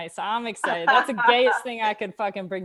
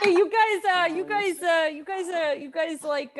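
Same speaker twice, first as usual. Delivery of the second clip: impression; 5 semitones higher than usual. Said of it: "That was a good impression".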